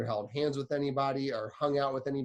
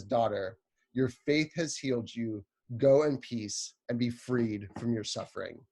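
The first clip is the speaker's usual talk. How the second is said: gentle Jesus. Retold or imitated. Jesus gently tells the healed woman to go in peace. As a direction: speak like a loving father. Quoting Jesus' tender words.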